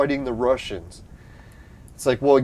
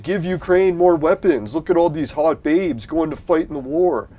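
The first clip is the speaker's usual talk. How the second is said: higher, mock-eager celebrity cheer; mocking celebrities; 5 semitones higher, 3 dB louder than usual. Mocking celebrities on TV, raised gushing voice. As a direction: parrot the TV stars in a raised, gushing voice. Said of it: "I see the celebrities on T V".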